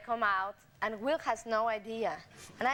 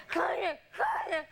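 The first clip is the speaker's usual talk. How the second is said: gasping for cognac, mock; 5 semitones higher than usual. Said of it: "he starts saying".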